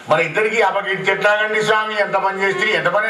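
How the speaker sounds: pleading wife. Retold or imitated.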